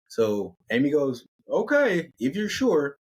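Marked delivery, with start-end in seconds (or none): 1.5-3.0 Amy voice. Acted.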